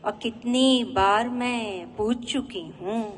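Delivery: measured ghazal recital with drawn-out line endings; poetry recitation. Acted. Woman poet presenting her ghazal to an appreciative audience, poetry recitation. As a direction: recite each couplet line to an audience, pausing after it.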